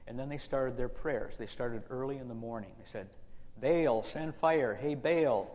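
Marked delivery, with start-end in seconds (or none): 3.6-5.5 loud, slow, drawn-out call to a god. Acted. Priests praying to Baal to send fire, calling out. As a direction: call out for Baal's attention, slowly and loudly. First calls in prayer to Baal.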